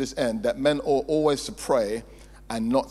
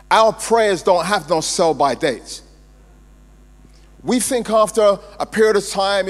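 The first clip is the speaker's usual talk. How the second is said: forceful preaching; 4 semitones higher, 7 dB louder than usual. Real, not acted.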